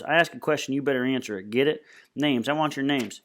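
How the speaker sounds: menacing boss, lightly acted; gang boss demanding names. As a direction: press hard for an answer.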